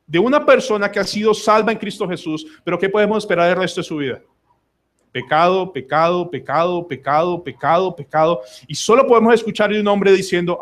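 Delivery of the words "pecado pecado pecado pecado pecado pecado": PECADO repeated in an even, measured beat; repetitive listing. Shown as a demonstration. Preacher listing what to expect of life, repetitive listing. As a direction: toll out each pecado at equal spacing.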